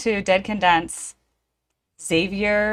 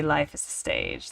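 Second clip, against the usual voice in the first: a lower, grand stage pronouncement; mock theatrical proverb; 7 dB quieter than usual. Theater kid hamming up a famous line, mock grand. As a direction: intone it like an old actor on the boards. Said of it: "As they say".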